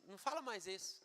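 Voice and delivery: soft, restrained reproof; gentle correction. Acted. God speaking to Jeremias, gentle quiet correction. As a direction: quietly ask them to stop. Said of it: "com Jeremias Deus falou assim".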